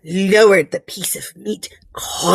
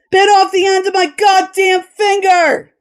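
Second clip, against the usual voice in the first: higher, pained outburst; shaken voice; 8 semitones higher than usual. A narrator's reading. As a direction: blurt it out in shock. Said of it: "voice shaking".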